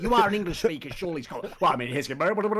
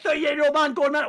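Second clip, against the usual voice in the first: mocking jeer; 9 semitones higher, 5 dB louder than usual. Mocking what critics said.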